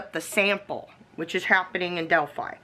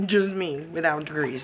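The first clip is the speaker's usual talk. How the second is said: laughing. Real, not acted. Joking about having no degrees.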